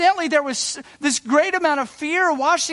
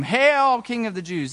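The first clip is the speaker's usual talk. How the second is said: mocking. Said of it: "and they're mocking him".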